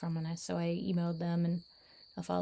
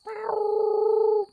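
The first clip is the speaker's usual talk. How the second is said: high cat meows, the second loud and falling; 14 semitones higher, 8 dB louder than usual. Pretend. Vlogger meowing at the cats, high loud meows. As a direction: meow high like a cat calling.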